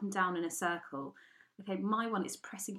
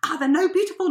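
much higher, loud outraged cry; furious shout; 10 semitones higher, 13 dB louder than usual. Retold or imitated. Arguing with casting, a high furious yell. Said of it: "I have never been so furious".

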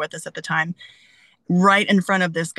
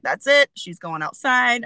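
imitating stern dad; 5 semitones higher, 3 dB louder, slower than usual. Dad ordering dog outside.

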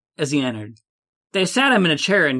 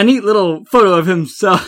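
laughing; 3 semitones higher, 6 dB louder than usual. Real, not acted.

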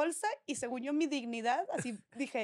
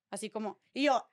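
ordinary talk

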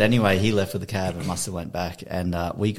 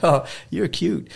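slow, high mock-flirty coo; flirty stripper imitation; 9 semitones higher, 3 dB louder, slower than usual. Strippers to the storyteller in onesie, imitated flirty voice. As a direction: imitate a flirt, higher and drawn out.

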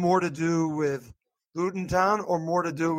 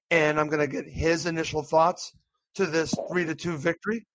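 hoarse, strained throat; talking through a sore throat. Real, not acted. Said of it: "I'm a little bit hoarse".

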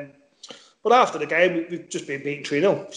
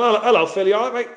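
higher-pitched, matey hello, mildly acted; chirpy greeting; 5 semitones higher than usual. Teammate greeting Phil Neville in the players' bar, chirpy. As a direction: call out a friendly hello to a mate.

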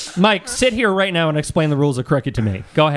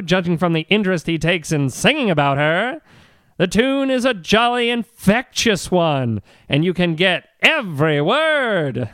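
1950s narrator. Acted. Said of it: "you've got a good old-timey voice".

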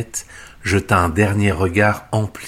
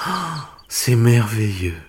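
delighted exclamation; 3 semitones higher than usual. Acted. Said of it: "s'exclama Cendrillon".

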